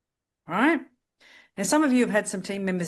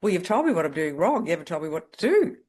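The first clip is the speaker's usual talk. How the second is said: rude client; 5 dB louder than usual. Retold or imitated. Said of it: "One lady was quite rude".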